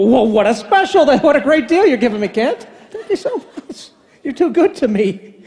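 mock-grateful sarcasm with a laugh; sarcastic thanks to the phone rep. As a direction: thank him with dripping sarcasm.

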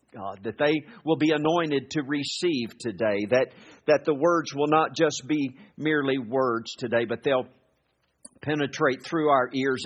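fervent pulpit prayer; earnest prayer. Acted. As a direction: pray it over the congregation. Pastor prays before the sermon.

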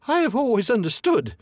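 high, timid little squeak; frightened squeak. A narrator's reading. Scared hobbit flattering the dragon, high squeak. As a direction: squeak it out nervously. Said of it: "in a frightened squeak".

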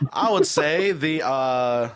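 hesitant attempt at an English accent; amateur English accent, breaking into laughter; put-on English accent. Shown as a demonstration. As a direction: answer in a shaky-confidence fake English accent. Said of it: "do it in an English accent".

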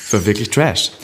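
lautes, lachendes Lästern über Kollegin; genüsslich und laut herziehen; laut lästernd. Real, not acted. Lästert lautstark über Katie Bam. (laut und lachend lästernd)

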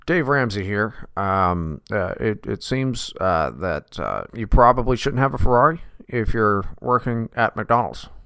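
hint of a radio finance host; Dave Ramsey impression. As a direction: lecture the caller dryly like a talk-show money man. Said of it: "I've been working on my Dave Ramsey".

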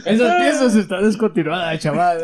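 loud laughing stall vendor; singsong market price calls. Retold or imitated. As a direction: tell the buyer it's out of stock. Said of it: "Meave market stall sellers". (vendedor de plaza riéndose)

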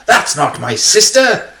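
high, slow, shocked denial. Retold or imitated. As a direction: drag it out in disbelief. Retold shocked woman again.

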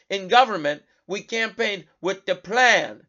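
mocking quote in a put-on French accent; imitated French accent. Radio host quoting Kamala Harris at the lab, mock French accent. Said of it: "over and over again in this French accent".

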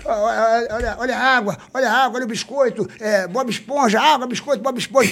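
sing-song street vendor cry; singsong beach vendor call. Retold or imitated. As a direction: chant it like a kid hawking snacks. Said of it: "como é que eles gritavam?".

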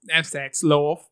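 put-on Essex accent; British accent attempt. Shown as a demonstration. Host shows the only accent she can do, British accent attempt. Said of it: "I can only talk like".

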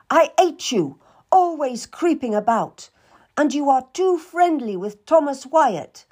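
high and loud jealous tirade; berating. Acted. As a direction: tear into the servant with spite. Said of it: "as she berated me".

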